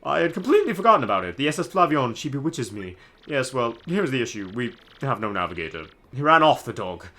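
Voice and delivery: grand, high theatrical nobleman voice; pompous Flavio. Acted. Streamer voicing Flavio to the player, hammy pompous. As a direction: ham up the vain pirate-loving noble.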